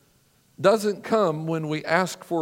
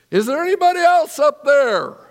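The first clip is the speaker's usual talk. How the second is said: much higher and louder, alarmed; panicked plea; 9 semitones higher, 9 dB louder than usual. Retold or imitated. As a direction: blurt it out in sudden panic. Man refuses to let go.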